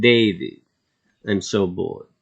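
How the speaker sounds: put-on a lightly done Russian accent, bored. Redoing the accent for the viewer, in a light Russian accent. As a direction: repeat the Russian lady's line in her accent. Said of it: "my Russian accent?".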